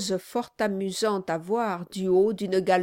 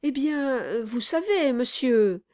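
ingratiating lawyer; 5 semitones higher than usual. Acted.

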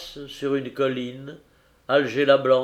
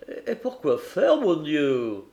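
capitaine interloqué; 2 semitones higher than usual. Acted. Capitaine interloqué par l'alarme.

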